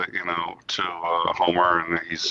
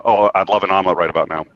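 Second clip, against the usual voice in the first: dismissive; 4 dB louder, faster than usual. Retold or imitated. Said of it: "anytime she says something I don't wanna hear".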